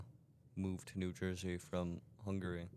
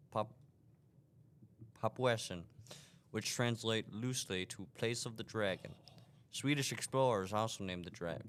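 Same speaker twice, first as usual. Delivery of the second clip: put-on southern accent. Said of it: "Just speak in normal voice".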